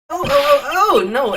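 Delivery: high, loud panicked oh-oh-no; flustered panic. Acted. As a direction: flail in a squeaky panic. Character panicking in game.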